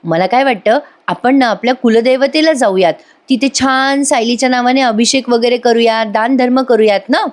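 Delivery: lightly acted eagerness; mildly enthusiastic. Grandmother suggesting a temple visit to family, mildly enthusiastic. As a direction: propose the plan with understated excitement. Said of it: "Purnaji अगदी उत्साहाने सांगत असतात".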